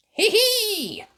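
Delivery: very high hee hee; giggle. Acted. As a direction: giggle at the joke. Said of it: "said Molly Mouse".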